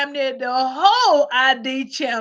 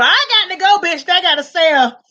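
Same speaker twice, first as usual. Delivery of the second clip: hasty widow. Retold or imitated. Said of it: "they be at Neiman Marcus".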